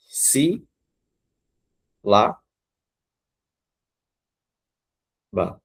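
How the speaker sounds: Si, lá, ba with long pauses between; Si, then lá, then ba, each on its own; syllable by syllable. Shown as a demonstration. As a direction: count out each syllable of sílaba. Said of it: "ó".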